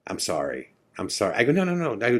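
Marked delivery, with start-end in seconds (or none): 0.1-1.3 mildly nervous, softer retold apology. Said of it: "he looks at me really nervous". 1.5-1.9 quick, high-pitched protest; retold hurried reassurance, pitched up; hasty reassurance. Hurries to stop the man apologizing.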